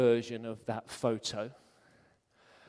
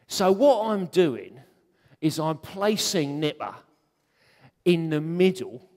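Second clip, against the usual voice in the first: Mad Frankie Fraser Cockney gangster; 4 semitones higher, 3 dB louder than usual. Pretend. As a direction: put on a hammed-up Cockney gangster accent like a London hard man. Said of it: "doing my fake Cockney gangster accent".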